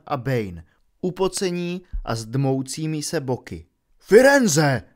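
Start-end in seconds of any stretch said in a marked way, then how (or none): 4.0-4.8 loud, higher angry bellow of a name; thundering call. A narrator's reading. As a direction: roar the name across the clearing. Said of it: "zahřměl Bane".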